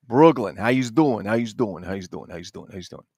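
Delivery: repeated Brooklyn greeting, starting loud and fading away; heavy Brooklyn accent. Acted. Collector greeting viewers as a Brooklyn local, heavy accent fading out. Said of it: "you got that heavy accent".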